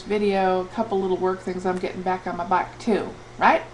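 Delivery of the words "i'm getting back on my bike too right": playful touch of southern twang; southern accent. Pretend. Vlogger pledging to exercise, playful southern accent. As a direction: slip into a light southern accent. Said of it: "I talk with a southern accent".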